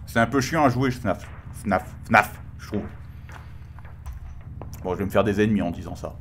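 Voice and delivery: talking through a mask; muffled behind a mask; through a face mask. Real, not acted. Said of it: "Je sais même plus si vous m'entendez avec mon masque pourri".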